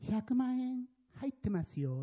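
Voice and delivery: slow, offhand line tossed aside; curt flat remark. Retold or imitated. Blind man handing over the envelope, offhand and curt. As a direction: say it without looking, indifferent. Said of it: "なんて言ったか".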